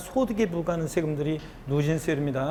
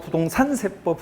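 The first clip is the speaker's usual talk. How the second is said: "부동산 세법" with the beat on 산. Shown as a demonstration. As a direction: lift and lean on 산 in "부동산 세법". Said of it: "이거 못하면 음치라고 했잖아요". ("부동산 세법"에서 "산"에 힘주어)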